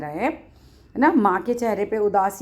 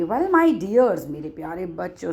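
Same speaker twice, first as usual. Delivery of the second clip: compassionate voice; slower than usual. Retold or imitated. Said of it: "compassionate voice".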